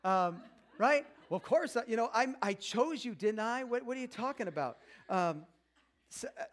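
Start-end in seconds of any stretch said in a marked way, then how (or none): 1.3-4.8 dumbed-down clueless husband. Retold or imitated. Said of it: "dumbing it down here".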